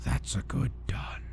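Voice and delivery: slow, soft, condescending whisper; patronizing whisper. Retold or imitated. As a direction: whisper it like petting a dog. Boss patronizes cowed underling.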